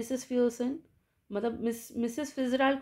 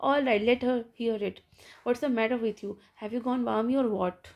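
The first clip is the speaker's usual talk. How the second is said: mild mock shout; 4 dB louder, much slower than usual. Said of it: "glared at Missus Pearson shouting".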